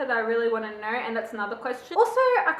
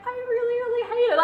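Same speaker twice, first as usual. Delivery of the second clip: mock hate; 11 semitones higher, much faster than usual. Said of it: "there were times when I'm just like".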